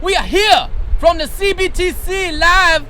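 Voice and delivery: loud, high hype opener; excited live host. Real, not acted. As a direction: shout it out to the crowd. Live broadcast opening from tailgate.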